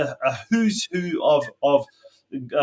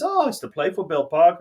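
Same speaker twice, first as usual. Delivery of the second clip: bad Scottish accent. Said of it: "that's my bad Scottish accent".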